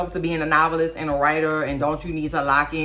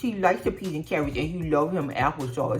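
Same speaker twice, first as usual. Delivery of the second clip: mock doting mom voice. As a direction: drag it out like a mom fussing over her baby. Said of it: "you just gonna be like".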